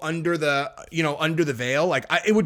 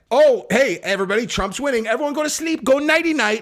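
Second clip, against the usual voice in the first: higher, sing-song mock voice, lightly done; a hint of a smug anchor lulling everyone to sleep; mocking the announcers; 7 semitones higher than usual. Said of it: "from when they said".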